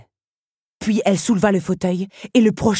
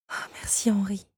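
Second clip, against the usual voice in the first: softly breathed, relieved thanks; 3 semitones higher, 6 dB quieter than usual. A narrator's reading. Belle thanks Henri, freed from his grip, in a relieved breath. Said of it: "souffla soulagée Belle".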